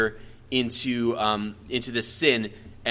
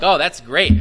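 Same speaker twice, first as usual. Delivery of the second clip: sarcastic; 2 semitones higher, 6 dB louder than usual. Retold or imitated. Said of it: "I'm sure his brothers are all like".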